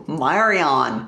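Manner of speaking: name said in an attempted Australian accent; playful stab at Australian; mock Australian accent. Shown as a demonstration. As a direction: put on an Aussie twang. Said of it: "Say it with an Australian accent".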